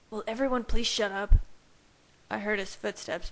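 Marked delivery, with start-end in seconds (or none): 0.1-1.4 louder, fed-up yell; exasperated shout. A narrator's reading. Jacob shouts at teasing packmates, exasperated. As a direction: make them all stop at once.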